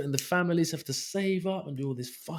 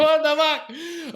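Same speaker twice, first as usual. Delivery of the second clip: mock baffled rider; 11 semitones higher, 5 dB louder, much slower than usual. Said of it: "You're like".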